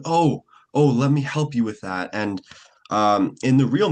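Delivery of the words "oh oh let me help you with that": big startled "Oh, oh", pitched up high and louder; overdone surprise. Shown as a demonstration. Beginner actor overplaying a simple movie line, loud and startled. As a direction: play the noticing far too hard. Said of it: "I remember when I was first doing this thing".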